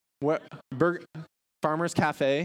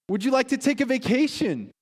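tempting offer; 11 semitones higher, 5 dB louder than usual. Acted.

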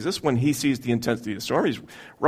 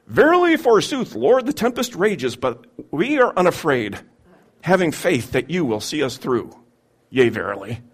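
hammy stage actor. Acted. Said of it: "they would have written something like".

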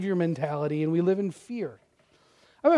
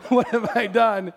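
laughing dismay. Retold or imitated. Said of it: "repeats the thought laughing".

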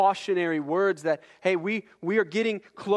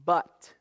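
"But" said alone after a long pause, firm; the word "But" set apart; 4 dB louder than usual. Shown as a demonstration. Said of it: "is the word but".

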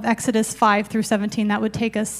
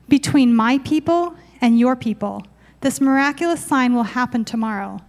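firm, measured scripture voice; scripture reading. Acted. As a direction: declare it like God's promise. Reading God's words to Pharaoh.

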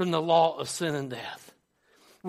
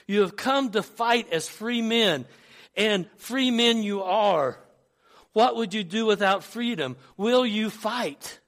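lightly acted battle speech, pitched up; a measured rallying call, raised a little; William Wallace; 3 semitones higher, 3 dB louder than usual. Wallace rallies countrymen to fight, mildly acted battle oratory. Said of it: "one of my favorite speeches".

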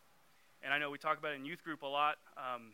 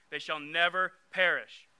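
"never" pushed out louder; stress on never; 6 dB louder than usual. Shown as a demonstration. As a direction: lean on the word "never". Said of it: "Underline that word "never".

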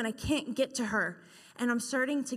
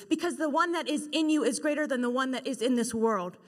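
rising, louder preaching, faster at first; 3 dB louder than usual. Acted. Preacher rallies the congregation against the enemy, louder and rising. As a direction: build the sermon up with conviction. Preaching builds to full force.

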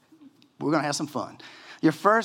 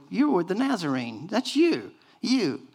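accusing crowd; 5 semitones higher than usual. Retold or imitated. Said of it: "people look at him and go".

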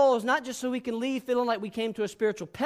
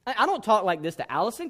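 usual speaking voice

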